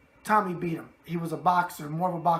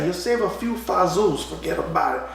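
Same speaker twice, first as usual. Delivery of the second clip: put-on New York wiseguy accent; 5 dB louder than usual. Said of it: "and the New York thing".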